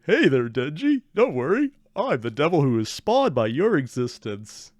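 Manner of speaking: imitating a too-friendly devil; lightly put-on chummy greeting; mock friendly. Reactor imitating the devil greeting Denji, mock friendly. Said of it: "make it sound so friendly".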